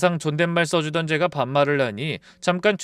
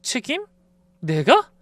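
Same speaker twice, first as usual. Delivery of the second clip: scoffing; 8 semitones higher than usual. Retold or imitated. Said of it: "웃음이 나왔어요".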